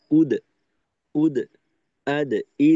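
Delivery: উদ, আদ, ইদ with an unrounded echo on দ; lips open, taut. Shown as a demonstration. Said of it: "খোলা রেখে টান টান করে". (উদ, আদ, ইদ-এর দ ঠোঁট টান টান খোলা রেখে)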